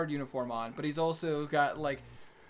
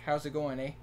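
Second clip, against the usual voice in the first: lightly imitated Canadian "eh"; casual stereotyped Canadian greeting; Canadian accent. Shown as a demonstration. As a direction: demonstrate northern Minnesota Canadian-style talk. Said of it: "speak like a Canadian".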